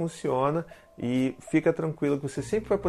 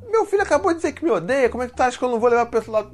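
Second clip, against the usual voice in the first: much higher and louder, rushing into a protest; indignant parent; 9 semitones higher, 5 dB louder than usual. Retold or imitated. Viewer parent protesting to the host, indignant and fast. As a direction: play the outraged dad who can't believe it.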